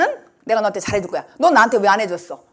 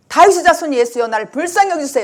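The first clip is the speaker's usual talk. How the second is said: louder pleading call to Jesus, easing off at the end; a blind beggar calling out to Jesus, louder and pleading; retold cry for mercy; 2 semitones higher, 5 dB louder than usual. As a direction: cry out to the son of David for mercy. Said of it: "이렇게 소리 지르는 거예요".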